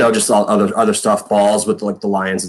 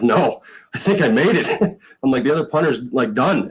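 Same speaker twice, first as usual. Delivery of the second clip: high, breaking through tears of joy; excited relief; 6 semitones higher than usual. Retold or imitated. Son telling his dad he made the team, excited relief. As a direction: insist to dad, pitch up with joy.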